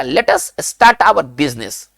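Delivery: each English word spaced out very slowly; slow dictation. Shown as a demonstration. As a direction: spell it out slowly for the class to repeat. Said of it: "अंग्रेजी में कैसे कहा जाएगा".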